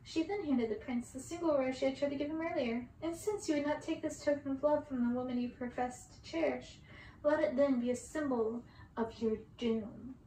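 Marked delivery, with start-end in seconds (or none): 3.0-10.1 stern curse. Acted. Circe's curse continues.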